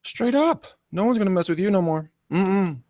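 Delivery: playful street-slang praise; ghetto side. Pretend. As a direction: hype her up like a homeboy. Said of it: "that's my ghetto side".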